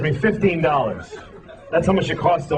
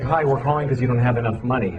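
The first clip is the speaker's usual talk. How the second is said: bank caller voice; 5 semitones lower than usual. Retold or imitated. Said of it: "They're like".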